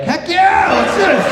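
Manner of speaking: loud, high burst of eagerness; excited yell. Retold or imitated. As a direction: shout it like you can't wait. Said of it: "I was like".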